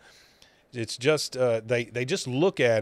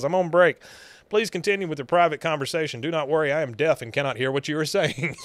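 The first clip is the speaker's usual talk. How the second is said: deaf electrician act; 3 semitones higher, faster than usual. Retold or imitated. Dale feigns being deaf workman.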